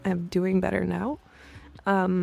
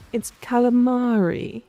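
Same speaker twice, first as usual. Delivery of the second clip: stuck-up pronunciation; 4 semitones higher than usual. Retold or imitated. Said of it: "it sounds so fucking stuck up".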